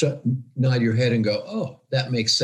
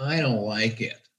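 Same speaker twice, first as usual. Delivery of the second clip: put-on obnoxious, annoying voice; 4 dB quieter than usual. Imitating a coworker who objects in meetings: imitating an obnoxious voice. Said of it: "he just had that kind of voice".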